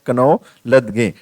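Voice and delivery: कनौ लदगे spelled out letter by letter, slow; mock the student reading every letter of knowledge; student's mispronunciation. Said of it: "full pronunciation उसने कर दिया कनौ लदगे".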